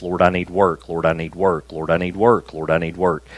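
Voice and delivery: whining prayer. Retold or imitated. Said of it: "that complaining kind of prayer".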